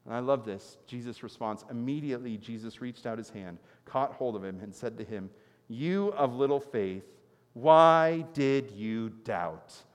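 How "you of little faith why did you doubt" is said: slow, drawn-out why did you doubt; gentle rebuke. Acted. Preacher voicing Jesus to Peter, slow and gentle. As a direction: stretch each word, searching.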